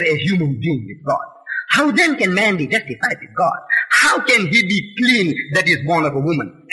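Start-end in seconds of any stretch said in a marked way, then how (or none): 3.9-6.7 shouted question. Real, not acted. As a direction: hurl the question at the crowd. Preacher repeats rhetorical question.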